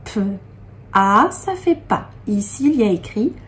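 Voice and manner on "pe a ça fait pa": "Pe", a pause, "a", then blended as "pas"; sounding out syllable. Shown as a demonstration. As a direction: sound out "Pe" and "a" apart before joining them into "pas". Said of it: "ça fait pas".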